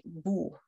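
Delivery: German "wo", pronounced "vo"; labiodental W. Shown as a demonstration. Teacher repeating the proper German sound, "wo" with a v sound. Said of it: "my upper teeth touch my lower lip".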